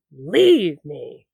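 low, loud Denethor bark; mock yell. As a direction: bellow it like a grieving king. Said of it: "Denethor yelling".

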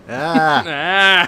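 lightly imitated noncommittal "ah"; Norm Macdonald. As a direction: stall with a comic, loud "ah". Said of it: "I'm gonna do it like Norm Macdonald".

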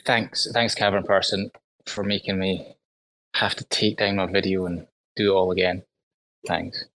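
sarcastic thank-you, fading quiet. Acted. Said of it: "but ser-, seriously".

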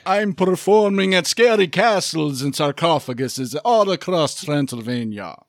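slow, hammed-up Transylvanian spook; mock-sinister, theatrical slow delivery; scary voice. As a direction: draw the words out like a campy horror villain. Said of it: "Not, not gonna do a scary voice?".

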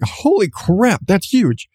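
a high, startled reaction to the tooth's size; imitating her own shock on seeing the big tooth; shocked exclamation. Mother seeing the child's huge tooth, high startled gasp. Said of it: "like, I go and it's like".

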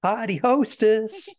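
put-on "Potty hostess" said high and slow in a Boston accent; Boston accent, "potty" for party. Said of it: "trying to say party hostess with a Boston accent".

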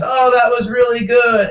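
sarcastic fake praise, slow; mocking gush. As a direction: parody a fawning judge. Mocking panelists kissing ass.

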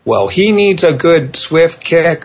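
imitating parents who want a swift kick, mock tough. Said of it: "the people who say to me".

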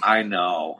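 mildly sheepish, low-voiced admission; ashamed. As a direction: imitate a man quietly owning up in shame. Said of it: "just shame came over him".

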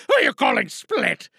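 offended Geronimo. Acted. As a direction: bristle at the insult. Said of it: "that's Geronimo Stewart".

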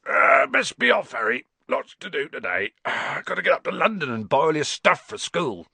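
yawning, stretching giant, high at first; Hagrid. A narrator's reading. Hagrid rousing Harry for London, yawning. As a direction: heave it out through a waking yawn.

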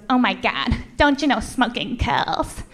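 slow, lightly voiced teen disapproval; scolding teenage girl. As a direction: imitate a preachy teenager, drawing it out. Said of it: "this girl, she couldn't have been more than fourteen".

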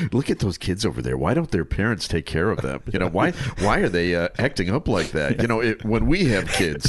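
lightly acted know-it-all complaint; mock smug judgment. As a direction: tut at other people's parenting, swooping pitch. Acts smug childless couple judging parents.

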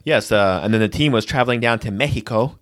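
Mexico suddenly said the Spanish way, "MEH-hee-ko"; plain report, then over-accented "Mexico"; mock sportscaster. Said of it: "a sportscaster will be like".

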